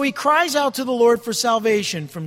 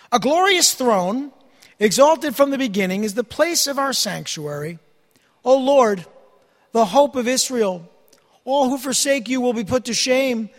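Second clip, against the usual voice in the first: scripture reading; 4 dB louder than usual. Acted. Preacher reading Jeremiah's prayer to the congregation, solemn and raised. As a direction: proclaim the verses with weight. Reads Jeremiah passage aloud.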